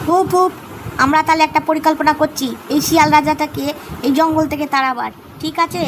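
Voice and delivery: rallying the others to a plot; excited monkey. Acted. Monkey plans to oust fox. (জোরালো উত্তেজিত বাঁদরের ডাক)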